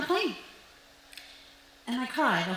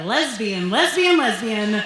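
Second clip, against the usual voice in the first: cheerful, chirpy repetition; upbeat and positive; 7 dB louder, slower than usual. Retold or imitated. Telling mom week after week, relentlessly upbeat. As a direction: sell the word brightly. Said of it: "in the most positive and upbeat manner I can imagine".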